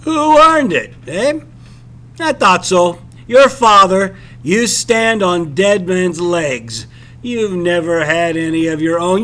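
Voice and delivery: bully him with every word; scornful captain. Acted. Captain scorning the narrator's inherited income, loud and domineering.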